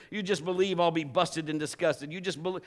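ordinary talk, nothing marked

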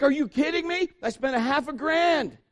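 high, loud outraged rant; mock outrage at ungrateful kids; indignant comic yelling; exasperated dad. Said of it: "he's just like".

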